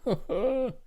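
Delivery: a touch of shyness, softening; shy. A narrator's reading. Woman tells the doctor about the picture, shy. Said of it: "she said shyly".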